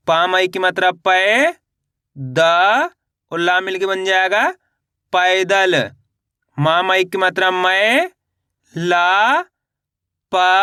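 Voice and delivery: drawn-out syllables rising at the end, then the word falling; spelling drill. Shown as a demonstration. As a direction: sound it out slowly for beginners, stretching each syllable. (मात्रा जोड़कर खींच-खींचकर पढ़ाना)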